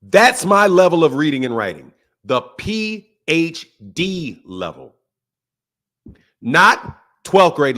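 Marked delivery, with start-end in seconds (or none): 2.2-5.0 low, slow, grandly drawn-out voice; pompous boast. Pretend. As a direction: savour each letter like a title. Boasting of his reading level.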